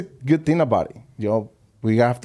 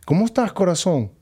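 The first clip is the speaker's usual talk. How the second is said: higher-pitched, caring hello; friendly greeting; 7 semitones higher than usual. Retold or imitated. Greeting a coworker who arrived crying, friendly and higher. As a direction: imitate greeting someone with an endearment.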